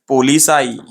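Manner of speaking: "पोलिसाई" with a long "saa-ee" ending; mistaken pronunciation. Shown as a demonstration. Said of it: "ये wrong word हो जाता". ("पोलिसाई" का आखिर खींचकर बोलें)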